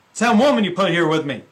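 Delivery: loud, fast, finger-pointing blame; loud quick accusation; defensive Adam. Retold or imitated. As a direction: rush it out, blaming her. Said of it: "Adam's saying".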